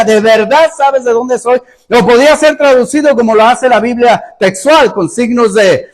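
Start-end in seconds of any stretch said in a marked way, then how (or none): 0.0-1.6 lightly mocking challenge; sarcastic. Preacher voices Jesus challenging those who claim to know him, sarcastic. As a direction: question their claim with mild sarcasm. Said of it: "Está hablando de manera sarcástica".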